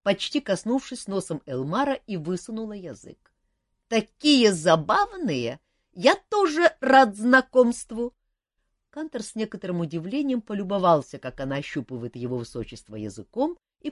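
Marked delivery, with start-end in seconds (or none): 3.9-8.1 high, loud, slow and gleeful; a dragon charmed by humans; delighted dragon. Acted.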